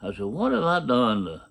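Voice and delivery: understated anguished plea; pleading out loud. Retold or imitated. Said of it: "out loud".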